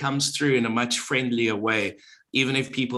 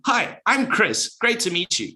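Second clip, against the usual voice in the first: upbeat presenter hello, pitched up; energetic greeting; 8 semitones higher than usual. Shown as a demonstration. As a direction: greet them with big radio energy. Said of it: "You've got that energy that goes into the voice".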